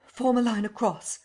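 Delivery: high, loud order; rally the crowd into a line; urgent shouted command; crying out. A narrator's reading. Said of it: "he cried".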